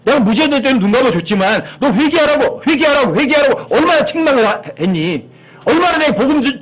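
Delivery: acted scolding that keeps pressing; God reproaching. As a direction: drive the repeated plea home, voicing an exasperated God. Acts God reproaching the unrepentant sinner.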